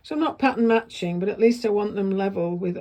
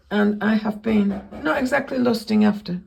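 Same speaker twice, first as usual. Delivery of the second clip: hoarse, croaky throat; 3 semitones higher, 4 dB louder than usual. Real, not acted. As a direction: talk through a croaky voice. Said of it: "I've got this really croaky voice".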